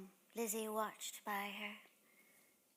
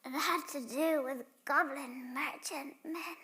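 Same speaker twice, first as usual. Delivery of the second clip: urgent character voice; 7 semitones higher, 9 dB louder than usual. Acted. Lizzie pleading after braving goblins.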